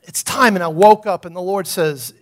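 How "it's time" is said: lightly voiced preacher declaring it's time; a hint of Lou Engle's solemn delivery. Pastor quoting Lou Engle in his vision, lightly imitated. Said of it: "he's got this voice".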